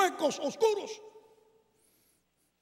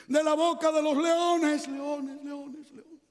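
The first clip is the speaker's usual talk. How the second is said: echo; 4 semitones higher, slower than usual. Shown as a demonstration. A preacher acts the king's echo in the den, fading. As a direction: let Dios bounce back and die off. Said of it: "el eco de la misma voz del rey".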